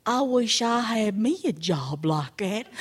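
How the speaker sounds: lightly voiced envious bear; wistful bear. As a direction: wish aloud as a simple bear.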